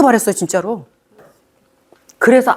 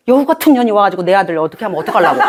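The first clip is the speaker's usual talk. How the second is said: fast, laughing half-joking fret; laughing mock worry; faster than usual. Real, not acted. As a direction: rattle it off laughing. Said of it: "mock worried mother". (웃으며 빠르게 농담조로 걱정하듯)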